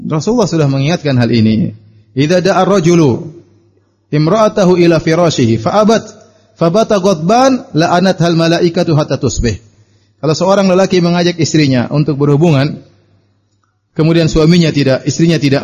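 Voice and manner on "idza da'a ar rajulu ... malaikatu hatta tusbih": solemn Arabic hadith chant, unhurried; hadith recitation. Acted.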